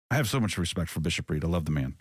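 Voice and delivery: sincere. Real, not acted. Host honoring Bishop Reed, whom he respects, sincere. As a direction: say it sincerely, without any sarcasm. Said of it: "I don't say that in any sort of sarcastic way".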